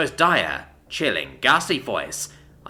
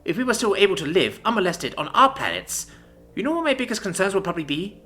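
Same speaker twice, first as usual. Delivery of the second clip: feral fury; 8 semitones higher than usual. A narrator's reading. Commander rages at the envoy over her losses, furious. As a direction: rage at everything the war took. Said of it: "The feral woman continues".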